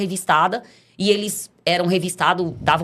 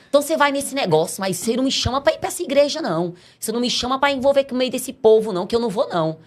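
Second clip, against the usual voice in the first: husband refusing; 6 semitones higher, faster than usual. Retold or imitated. Husband refusing to join church.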